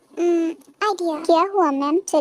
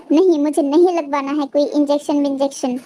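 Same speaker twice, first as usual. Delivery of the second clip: louder, digging in against the shot; stubborn loud refusal; 4 dB louder than usual. Acted. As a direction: refuse it outright, raising the voice.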